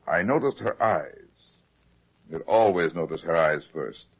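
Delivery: brisk hard-boiled detective voice-over; radio detective narration; noir narration. Acted. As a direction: tell it like a weary private eye.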